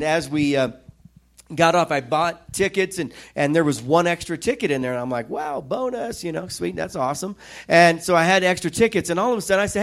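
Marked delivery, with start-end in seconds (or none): 5.3-7.4 pleasantly surprised. Retold or imitated. Pleased at finding a spare ticket.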